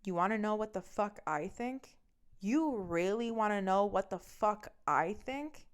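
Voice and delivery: measured, controlled retold challenge; menacingly calm. Girlfriend about to snap at boyfriend, very calmly. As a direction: hold the anger in, each word deliberate. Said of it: "I very calmly go".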